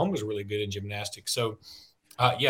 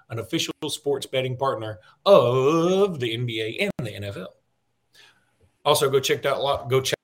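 sponsor ad read. Acted. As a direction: sell the sportsbook like a host-read ad. Reads a FanDuel sponsor ad.

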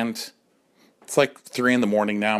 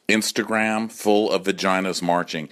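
ordinary delivery

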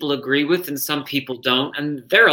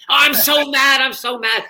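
high, loud mock-furious diva wail; the legend fuming again, overplayed; pitched-up outraged grande dame; Elaine Stritch impression; 9 semitones higher, 4 dB louder than usual. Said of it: "And she says".

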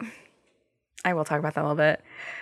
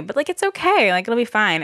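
a hint of a chirpy doctor, much higher; reassuring doctor; 6 semitones higher than usual. Doctor telling her the broken jaw is fine, lightly mocked and higher. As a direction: lightly mimic a breezy doctor brushing it off. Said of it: "And they're like".

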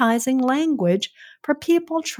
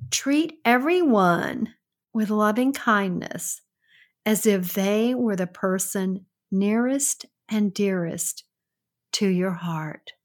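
hushed, deliberate quotation, fading at the end; reciting a quote. Real, not acted. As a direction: read it out reverently, phrase by phrase. Recites her own quote.

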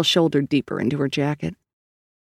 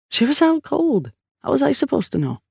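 redheaded hacker; 10 semitones higher than usual. A narrator's reading. Redhead defends himself to partner.

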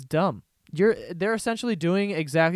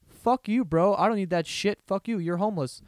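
mock angry rant; 4 semitones higher than usual. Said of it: "would go".

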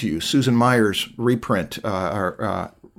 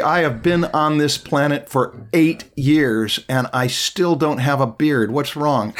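mock complaint; slower than usual. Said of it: "this has got a little bit of the".

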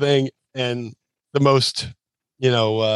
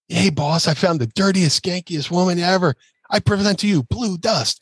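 higher hyped-up presentation; hype introduction; 6 semitones higher than usual. Retold or imitated. Stevie presenting the act to his boss, hyped and high. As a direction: present him like a showman. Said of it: "does this whole hype going".

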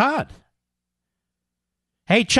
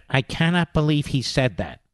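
lower, mock-appalled voice; mock shocked pundit; 5 semitones lower, 4 dB quieter than usual. Host mimicking pundits shocked by the president, mock-appalled. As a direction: drop low in feigned disbelief. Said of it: "same people who talk like this".

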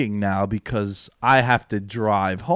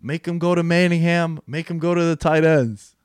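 higher voice, imitating a coach calling the defense; playing Belichick barking orders; mock Belichick coaching; 6 semitones higher than usual. Friend retelling the coach's mic'd up call, imitated higher. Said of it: "And he goes".

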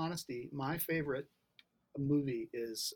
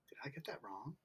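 hushed whispered self-doubt; whispering; 12 dB quieter than usual. Retold or imitated. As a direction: whisper it like a nervous thought. Worried inner thought, retold.

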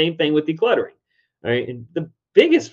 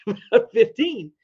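high, louder "Dude" in mock disbelief; a parent scoffing at a son who balks at fifteen an hour, high and exasperated; 9 semitones higher, 7 dB louder than usual. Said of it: "I'm like".

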